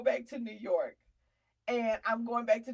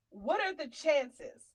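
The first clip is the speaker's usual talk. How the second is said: rhetorical question; 4 semitones higher, slower than usual. Real, not acted. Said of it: "this is another thing I said".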